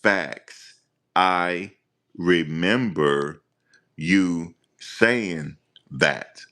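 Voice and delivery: very slow, pausing between words; slow halting reading. Retold or imitated. Imitating a dude reading a statement, very slow and halting. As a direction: drag each word out like a stiff reader. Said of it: "That's how he was reading".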